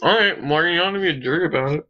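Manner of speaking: choppy cutting-out connection; glitching audio. Real, not acted. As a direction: voice breaking up online. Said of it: "You keep cutting out".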